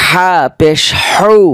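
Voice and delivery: হৌ pressed from mid-throat, drawn out; slow demo of হা পেশ হৌ; হৌ breathed from the middle of the throat; slow throat sound. Shown as a demonstration. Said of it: "হলকের মধ্যখান থেকে".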